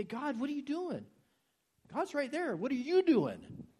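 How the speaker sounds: mock impatient outcry, building up; hammed-up demand of God, slowing to finish; mock demanding cry. Mocking demanding prayer, building.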